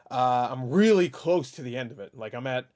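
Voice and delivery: breathless, winded voice; talking while short of breath. Real, not acted. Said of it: "I'm a little short of breath today".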